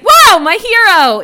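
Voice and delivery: high, loud, drawn-out admiration; enthusiastic and impressed. Retold or imitated. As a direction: gush slowly over a hero, hammed-up. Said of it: "so enthusiastic and impressed".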